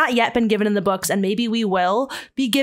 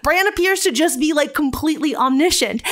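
high, loud laughing rant; can't stop laughing at it; laughing exasperation; 7 semitones higher, 3 dB louder than usual. Real, not acted. Laughing rant about Bran.

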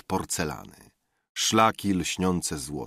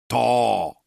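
short cry across the room; okrzyk; 4 semitones higher, 6 dB louder than usual. A narrator's reading. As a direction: call it out, higher and louder. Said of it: "krzyknął znawca od drugiego stołu". (krótki okrzyk)

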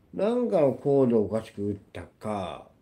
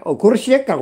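real screamed threat, much higher and louder; furious threat; 12 semitones higher, 10 dB louder, faster than usual. Real, not acted. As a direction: scream the threat at full force. (全力で叫ぶ脅し)

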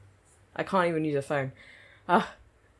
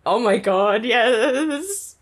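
excited cheer; 5 semitones higher, 6 dB louder, much slower than usual. Real, not acted. Cheering at the opening.

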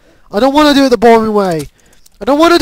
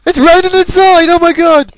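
higher, incredulous outburst; astonished exclamation; 3 semitones higher than usual. Real, not acted. Gamer exclaiming at rain indoors, astonished. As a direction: exclaim it in disbelief. Same words repeated as exclamation.

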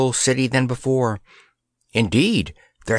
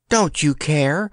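cried out; 5 semitones higher than usual. Acted. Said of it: "cried Eartha".

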